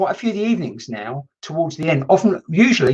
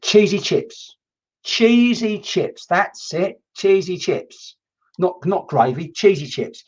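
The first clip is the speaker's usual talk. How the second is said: slow, higher drawn-out cheesy chips; mock spirit voice; 4 semitones higher, much slower than usual. Medium relays spirit asking for cheesy chips, slow and higher. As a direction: savour each word like a craving.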